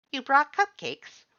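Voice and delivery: very high, loud, slow astonished skeleton; surprised Papyrus. A narrator's reading. Papyrus hears about the cupcakes, loud high astonished. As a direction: gasp the question out in delight.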